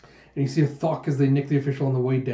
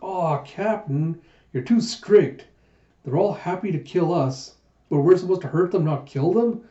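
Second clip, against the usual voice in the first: whiny protest; 4 semitones higher than usual. Acted. Pirates complaining that their captain is too strict, whiny protest. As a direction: plead like mock-aggrieved underlings.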